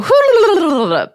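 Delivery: long, high, loud rolling noise; shake-it-off trill. Real, not acted. Shaking off a heavy topic.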